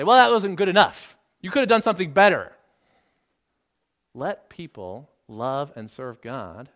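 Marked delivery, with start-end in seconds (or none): 0.0-2.6 louder, higher mock fault-finding; scolding. Critic faulting someone's good deed, loud scolding. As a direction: scold it loudly, as a critic would. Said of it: "to scold".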